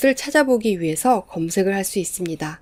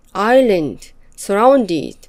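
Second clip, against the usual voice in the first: "island" and "surrounded" said alone, firm, falling; stressed words named; 3 dB louder, much slower than usual. Shown as a demonstration. Teacher listing the stressed words one by one. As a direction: tap out "island", then "surrounded". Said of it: "sea의 강세가 올 것입니다".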